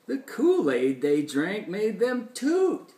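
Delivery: lilting rhymed storytelling; animated read-aloud to a child; story reading. A narrator's reading. Reads rhyming story.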